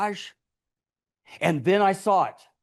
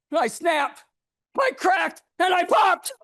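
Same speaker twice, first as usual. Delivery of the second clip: crank up the madness word by word; building to frenzy; 11 semitones higher than usual. Acted. Narrator losing it at the talking cereal, building to a shout.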